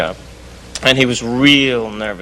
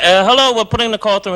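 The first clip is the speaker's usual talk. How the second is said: higher, hesitant put-on operator voice; fake operator voice; 8 semitones higher than usual. Prank caller stringing his friend along as an operator, higher put-on voice. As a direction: play the bumbling overseas operator. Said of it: "And I said".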